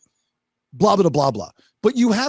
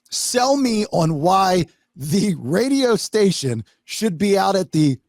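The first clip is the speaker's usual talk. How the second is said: mock condescension; slower than usual. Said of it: "The promotions director says to the talent".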